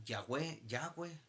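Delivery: "Yahweh" said as two syllables, YAH-weh; pronunciation of Yahweh. Shown as a demonstration. Teacher showing how the unpronounceable name was said, "Yahweh" with a w. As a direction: sound out "Yahweh" with a w glide. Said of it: "entonces decían".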